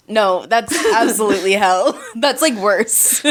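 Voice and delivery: laughing while talking. Real, not acted.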